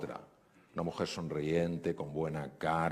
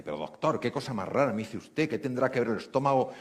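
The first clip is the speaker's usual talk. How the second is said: agitated disbelief; 3 semitones higher than usual. Retold or imitated. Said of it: "empezó a ponerse súper alterada".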